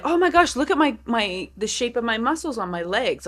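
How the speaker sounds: excited gush. Retold or imitated. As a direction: gush like you just spotted something great. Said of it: "I was like".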